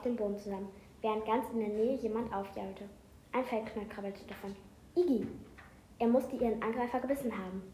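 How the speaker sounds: reading a book aloud; steady read-aloud narration; story narration. A narrator's reading. Reads an excerpt aloud.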